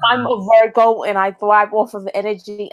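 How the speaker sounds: lightly voiced Sky, airy and self-assured; mock Sky impression. Mocking Sky's line to co-hosts, light impression. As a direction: mimic her smug tone. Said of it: "It's impersonation though".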